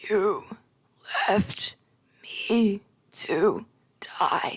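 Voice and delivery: croaking, very slow, halting voice in broken phrases. Voicing a character who turns toward a player: croaky voice. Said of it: "with that same croaky voice".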